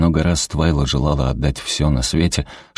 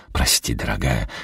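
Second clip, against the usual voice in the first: sheepish apology; 7 semitones lower, 5 dB quieter than usual. A narrator's reading. Wade apologizes again.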